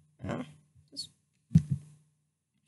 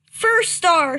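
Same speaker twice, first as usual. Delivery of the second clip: loud call of a name; cat calling out on entering camp; yowled; 3 semitones higher, 4 dB louder than usual. Acted. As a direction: call out the name, a touch louder. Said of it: "she yowled".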